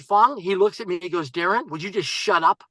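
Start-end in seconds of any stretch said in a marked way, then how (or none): 1.3-2.6 understated retold "shut up"; mild exasperated interruption. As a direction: cut in, firmly but contained. Investor first cuts off his pitch.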